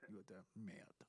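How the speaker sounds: hammed-up French accent; silly French guy. Shown as a demonstration. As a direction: play a silly Frenchman, muttered asides. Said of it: "or the silly French guy".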